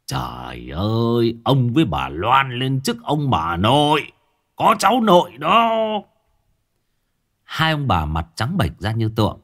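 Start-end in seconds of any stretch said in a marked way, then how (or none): 0.1-5.7 slap the thigh and crow the news; gleeful announcement. Acted. Neighbor gleefully announcing the coming grandchild. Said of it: "Bảy Cò vỗ đùi cười".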